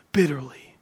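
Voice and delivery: whispered, breath-only word; hushed sorrow. A narrator's reading. Preacher tells how Peter wept, hushed sorrow. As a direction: let it drop into a whisper. Scripture of Peter weeping bitterly.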